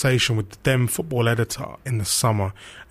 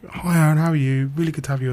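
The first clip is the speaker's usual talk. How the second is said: a touch higher, welcoming the guest warmly; warm welcome; 5 semitones higher than usual. Retold or imitated. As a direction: lightly imitate a presenter's friendly greeting. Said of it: "pure warmth".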